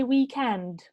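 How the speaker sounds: weekend stressed on END; stress on second syllable. Shown as a demonstration. Teacher answering a question about stress, weekend stressed on END. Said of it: "the stress would be on the second syllable".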